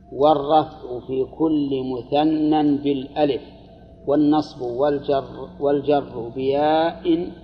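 slow, drawn-out reading of a grammar text; measured recital of a textbook rule; reading a text aloud. Acted. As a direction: read it out slowly, word by word.

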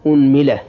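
أنملة as "unmila", u first, i after mim; damma then kasra. Shown as a demonstration. Teacher completing the damma set, أنملة as "unmila". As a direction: say أنملة with opening u and middle i. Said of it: "ضم الهمزة".

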